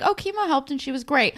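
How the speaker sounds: high, bright-voiced Leia impression; a high, chipper mock of Leia; mock cheery. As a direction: chirp it out cluelessly. Imitating Leia's cheery remark.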